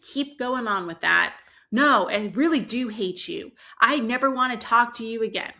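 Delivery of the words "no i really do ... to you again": louder, insistent protest; mock angry child. Child who keeps going on at a parent, mock angry. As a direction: imitate a child lashing out.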